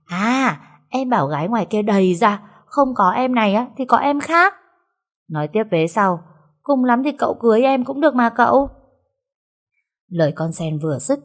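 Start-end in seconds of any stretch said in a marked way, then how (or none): 0.1-4.5 put-on a light, higher servant girl voice; coaxing her master, a touch higher; Sen's voice. Sen voiced pleading to master. 6.6-8.7 put-on a light, higher servant girl voice; coaxing her master, a touch higher; Sen's voice. Sen teasing her master.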